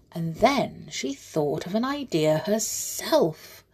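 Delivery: lively bedtime storybook reading; story narration. A narrator's reading. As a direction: read it to children like a bedtime tale. Reads a children's story aloud.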